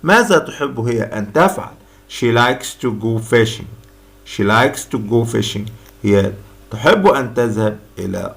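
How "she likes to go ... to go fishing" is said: slow, clear classroom model sentence; slow drill reading. Shown as a demonstration. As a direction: read it slowly for learners to repeat. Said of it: "What does she like to do?". (قراءة بطيئة وواضحة للتكرار)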